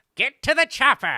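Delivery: very high, very loud villain screech. Asked to say anything in that voice, a speaker tries a Skeletor voice. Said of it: "with Skeletor's voice".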